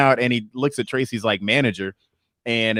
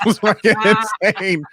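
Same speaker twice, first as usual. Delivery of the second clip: higher, laughing through the words; 10 semitones higher, 4 dB louder than usual. Real, not acted. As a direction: crack up while talking. Cracks up at own story's punchline.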